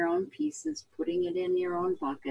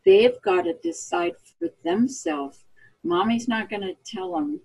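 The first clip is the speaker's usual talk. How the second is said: light folksy hillbilly twang, lower; 6 semitones lower than usual. Retold or imitated. Mother to caller, in a light hillbilly twang. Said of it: "that's my hillbilly voice".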